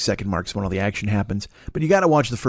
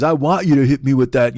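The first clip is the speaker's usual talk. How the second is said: retold loud dare; 5 dB louder than usual. Retold dare before the fight.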